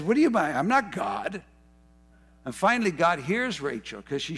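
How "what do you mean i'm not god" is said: upset Jacob. Retold or imitated. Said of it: "Jacob gets upset and says".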